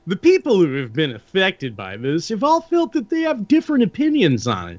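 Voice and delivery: lightly put-on corporate reading voice; a hint of boardroom presenter, with swooping intonation; corporate spokesperson. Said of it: "I started doing the corporate".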